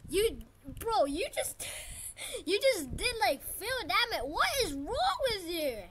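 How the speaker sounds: high, loud, incredulous protest; indignant outburst. Real, not acted. Player stunned by a rival's hit, indignant outburst. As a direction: sputter it out in disbelief.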